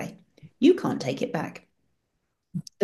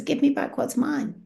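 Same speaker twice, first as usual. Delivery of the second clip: higher, lightly stern repeat of the demand; stern Jesus; 7 semitones higher than usual. Retold or imitated. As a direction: press the demand again, not slowed. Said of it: "Jesus' face looks like thunder".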